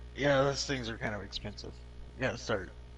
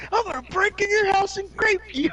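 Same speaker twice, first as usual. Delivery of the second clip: clickbait video narrator; 7 dB louder than usual. Pretend. Continuing YouTuber threat parody.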